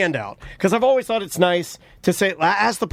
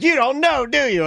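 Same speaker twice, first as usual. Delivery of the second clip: higher-pitched challenge; mock accusation; 6 semitones higher than usual. Acquaintance testing if he remembers the name, mock accusing. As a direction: put them on the spot, teasingly.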